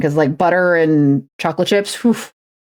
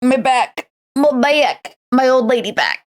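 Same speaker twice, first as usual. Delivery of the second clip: groaning while stretching; strained, stretching out the back; 5 semitones higher, slower than usual. Real, not acted. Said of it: "Sorry, I'm stretching".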